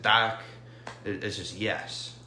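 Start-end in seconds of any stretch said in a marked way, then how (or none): 0.0-0.4 "Dak" in a light Russian accent, a hint louder. Shown as a demonstration. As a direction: say "Dak" like a Russian saying yes. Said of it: "or if you say in a Russian accent".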